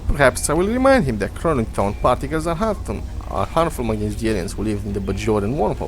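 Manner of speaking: put-on science officer with a Russian accent. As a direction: read the log in a Russian accent. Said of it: "stuck in the Russian accent".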